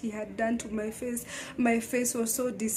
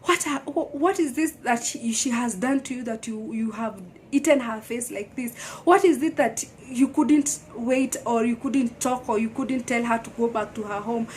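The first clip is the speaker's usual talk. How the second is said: angry mom; 3 dB louder than usual. Retold or imitated. Mom confronting the husband, a touch of retold anger. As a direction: tear into him like a furious mother. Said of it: "she was so angry".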